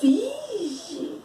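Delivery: a high, soft wince of vixe; pained vixe. Retold or imitated. Teacher acting the listener's shock at a wrong word, soft pained wince. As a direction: react as if the wrong word hurts. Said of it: "Aí você fica".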